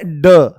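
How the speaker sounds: ड as a firm stop, drawn out; hard retroflex ड. Shown as a demonstration. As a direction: say ड with a hard tongue tap, no flap. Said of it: "बोले कैसे जा रहे हैं". (कड़क, बिना नुक्ते वाला ड)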